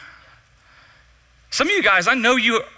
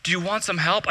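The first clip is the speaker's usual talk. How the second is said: soft, understated offer; chill dude; 7 dB quieter than usual. Retold or imitated. Slackliner offers help to the fallen student, chill and soft. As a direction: imitate an unbothered guy, quietly. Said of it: "figure out how to be chill like you".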